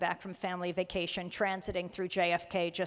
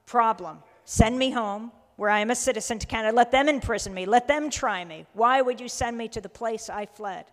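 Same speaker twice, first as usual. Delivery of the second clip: mild, emphatic plea, slightly raised voice; retold pleading; 2 semitones higher, 6 dB louder than usual. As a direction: voice his appeal with measured insistence. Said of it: "He's begging, he's pleading".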